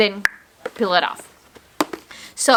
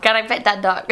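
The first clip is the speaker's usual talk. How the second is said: second playful try at Southern English; imitated Southern accent, breaking into laughter; attempted Southern accent; faster than usual. Shown as a demonstration. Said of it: "you say it and I repeat it".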